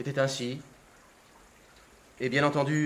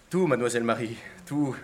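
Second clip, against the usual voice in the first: bold but natural; 5 semitones lower than usual. Acted. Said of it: "sur le ton le plus osé, hein, le plus naturel".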